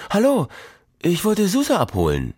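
sweet, high, put-on innocence; exaggeratedly innocent. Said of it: "Sie sagte betont unschuldig".

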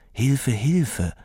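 put-on faint, thin old woman's call; a weak voice from inside a bin; trapped old woman calling faintly; thin cry for help. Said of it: "Da war ein dünnes".

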